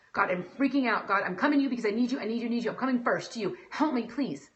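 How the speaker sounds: urgent, hurried mock plea to God; freaking-out prayer. Upset believer praying to God, urgent acted plea. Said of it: "you're so mad and you're freaking out".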